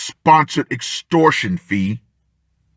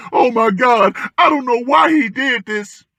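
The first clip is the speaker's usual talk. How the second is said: mocking whiny ex-wife; 11 semitones higher than usual. Vlogger mocking an ex-wife crying on TV, high mock wail. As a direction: ham up a fake-crying ex-wife on TV. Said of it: "bitching and whining and crying and saying".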